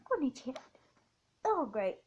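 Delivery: hiccuping; hiccups. Real, not acted. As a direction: talk through hiccups. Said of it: "Don't tell me I've got the hiccups now".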